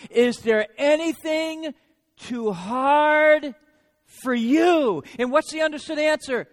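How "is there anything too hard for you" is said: rhetorical cry. Acted. Quoting Jeremiah's prayer.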